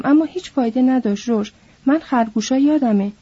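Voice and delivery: a big simple man, pleading; simple giant Lenny. Acted.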